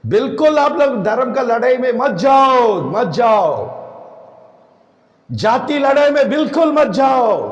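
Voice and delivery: forceful preacher's warning; emphatic warning. Real, not acted. Preacher warns against religious, caste fights. (ज़ोर देकर चेतावनी)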